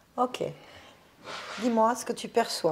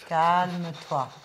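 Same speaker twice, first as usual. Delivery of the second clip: slow firm calming; 3 semitones lower, 4 dB louder, much slower than usual. Acted. Medium soothes possessed person.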